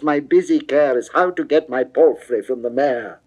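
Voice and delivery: he cries out to be let go, exasperated; crying out. Acted. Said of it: "he cries".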